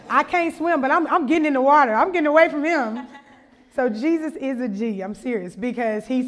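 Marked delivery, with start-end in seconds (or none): 0.1-3.1 louder, hurried mock alarm; joking, half-laughing panic; comic panic. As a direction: play up a hasty getaway. Comic escape from possessed man.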